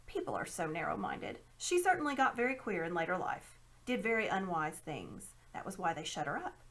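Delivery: a hint of a sly old man; lightly voiced scheming uncle. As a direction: explain with mild condescension. Uncle Andrew explains.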